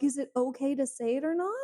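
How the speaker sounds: lightly imitated over-polite questioning tune; mock polite question. Imitating a polite Brit seeking permission, with a questioning lilt. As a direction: tentatively ask permission, lifting "not". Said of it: "say it like it's a question".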